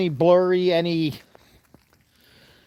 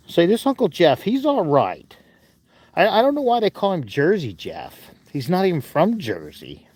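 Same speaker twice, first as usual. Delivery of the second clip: voicing Finley. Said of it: "All right, Finley. Well, thanks for that".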